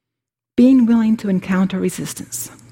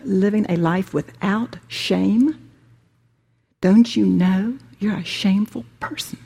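howling ego. Acted. Preacher voicing the ego scolding the listener, lightly accusing. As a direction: play the ego berating you, a mild mock scold. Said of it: "The ego will howl".

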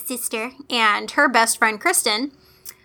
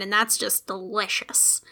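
breathy whispered aside; 4 semitones lower, 8 dB quieter than usual. Real, not acted. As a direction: whisper it like a secret. Whispered aside about cheap wine.

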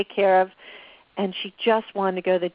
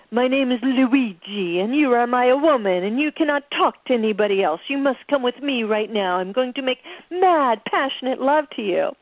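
bad Italian accent; 4 semitones higher than usual. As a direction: ham up a fake Italian accent. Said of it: "with a really bad Italian accent".

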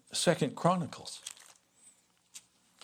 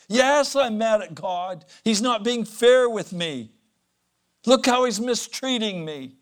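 higher and louder, indignant complaint; angry caller; 8 semitones higher, 9 dB louder than usual. Retold or imitated. Caller insisting to his pastor he is mad at God, loud and indignant. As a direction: insist God is being unfair, aggrieved. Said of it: "A man said to me".

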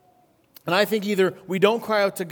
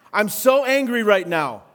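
mock angry post; 4 dB louder than usual. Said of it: "looks like this".

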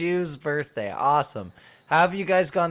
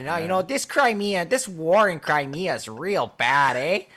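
mock Midwest accent. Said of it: "talk like we're in the Midwest".

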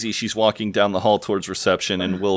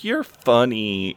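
put-on slightly drunk, drawn-out words; tipsy; 3 semitones higher, much slower than usual. Kinda drunk Daisy to Will over dinner, tipsy. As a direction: stretch it out like a tipsy flirt. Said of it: "like, kinda drunk is like".

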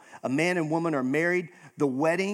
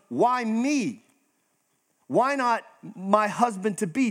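Mary's protest; 4 semitones higher than usual. Retold or imitated. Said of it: "her response is".

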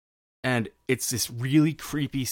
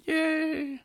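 excited cheer; 4 dB quieter than usual. Real, not acted. Cheering a singer's duet.

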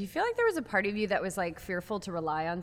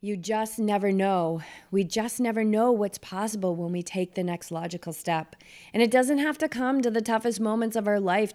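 measured, heartfelt host commentary; podcast host narration; 5 dB louder, slower than usual. Acted. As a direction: speak to listeners as an encouraging presenter. Host's scripted reflection after the clip.

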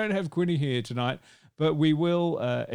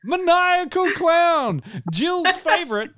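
much higher, slow, giggly announcement; laughing tease; 12 semitones higher, 6 dB louder, much slower than usual. Real, not acted. Host teasing Jill about her clown accent, laughing. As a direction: savour the joke while laughing.

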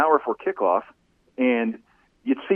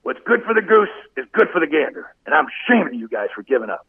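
imitating Hanny; 4 semitones higher than usual. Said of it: "he says".

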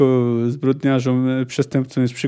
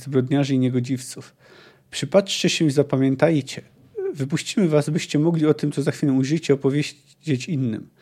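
fluent audiobook reading with acted dialogue; story narration. A narrator's reading. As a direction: read the novel aloud, voicing the quotes. Reads the novel aloud. (czytanie powieści na głos)

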